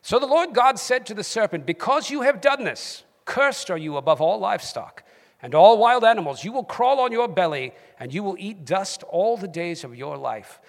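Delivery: Bible reading in a British accent. Shown as a demonstration. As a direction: proclaim scripture in your best British accent. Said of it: "in your best British accent".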